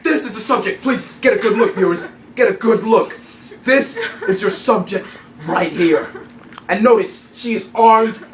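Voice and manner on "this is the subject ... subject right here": loud, laughing announcement to viewers; excited reveal. Acted. Anchor announces the suspect to viewers, loud and laughing. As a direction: crow it out like breaking news.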